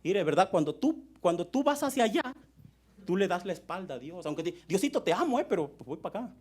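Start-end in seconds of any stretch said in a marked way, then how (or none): 4.7-6.3 mock devotion. Mimics a half-hearted believer.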